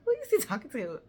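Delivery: high, loud laughing question; laughing in disbelief. Retold or imitated. To her friends about the man calling, high laughing disbelief. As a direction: giggle through the question. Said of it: "I'm like".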